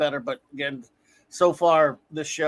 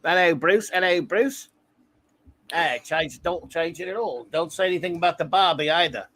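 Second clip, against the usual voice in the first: lightly hammed-up Aussie bloke accent; mock Australian accent. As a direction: play at being an Aussie greeting a mate. Joking Aussie accent after accent talk.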